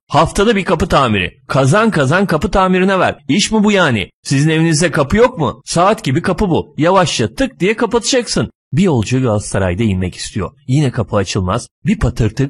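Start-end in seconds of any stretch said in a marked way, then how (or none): 0.1-8.5 high-pitched, indignant complaining; griping rant. Acted. Driver rants at passengers slamming his door, griping. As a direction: nag on about costly repairs. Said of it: "ama çenesini açıyor".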